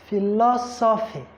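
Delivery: "Philosophy" with LO stressed, phi-LO-sophy. Shown as a demonstration. Teacher showing third-from-end stress, LO stressed in "Philosophy". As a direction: lean on LO in "Philosophy". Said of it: "is also going to be on law".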